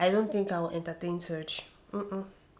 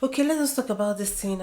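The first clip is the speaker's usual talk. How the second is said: urgent plea; 2 semitones higher, 7 dB louder, faster than usual. Retold or imitated. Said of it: "when you are just like".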